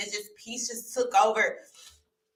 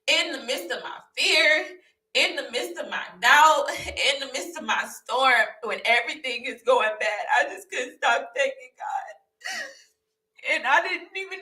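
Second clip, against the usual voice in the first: voice breaking; 3 semitones higher than usual. Real, not acted. Testimony breaking into tears.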